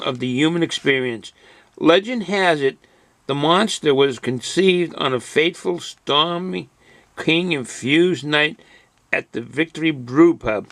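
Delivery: epic legend storyteller voice; dramatic label reading. Acted. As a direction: read it like a grand movie trailer. Dramatic reading of jerky bag label.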